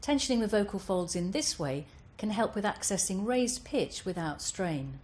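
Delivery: ordinary delivery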